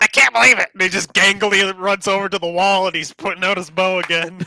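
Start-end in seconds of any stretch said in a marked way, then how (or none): 0.0-0.7 panicked skeleton voice, higher and louder. Voicing a skeleton archer who survived an attack: skeleton archer character voice. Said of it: "he's like".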